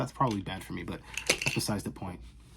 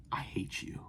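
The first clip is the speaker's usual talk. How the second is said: a playful, voiceless whisper; mock whisper; 9 dB quieter than usual. Vlogger whispers a mock grudge at laid-off viewers, teasing. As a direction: hiss it like a fake secret grudge.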